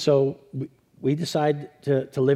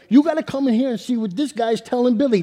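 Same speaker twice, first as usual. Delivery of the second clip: laughing call to the crowd, higher and louder; yelling out; 9 semitones higher, 6 dB louder than usual. Retold or imitated. Brother-in-law yells to the wedding guests, laughing and loud. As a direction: shout it out to the whole church. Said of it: "he yells to two hundred people".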